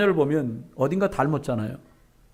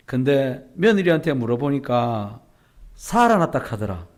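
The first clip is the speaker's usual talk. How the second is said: Gyeongsang grandma; 2 semitones lower than usual. Retold or imitated. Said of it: "할머니가 하는 말이".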